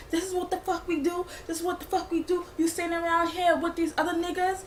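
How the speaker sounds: a touch of pissed-off ranting, retold; mock going off. Telling her off on the porch, mildly mock-angry. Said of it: "he was really upset, he was pissed, he was going off".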